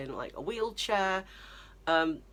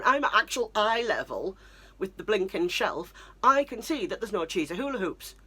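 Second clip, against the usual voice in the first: loud, higher, frustrated outburst; exasperated rant; 4 semitones higher, 4 dB louder than usual. Retold or imitated. Daughter snapping at mum in the aisle, loud and exasperated. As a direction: vent it at full frustration.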